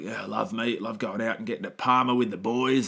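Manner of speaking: mock Aussie bogan, lightly put on; Bogan accent. Imitating a bloke out with the boys, bogan accent. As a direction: play a meat-loving bogan, accent and all. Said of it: "that's probably my best Bogan accent".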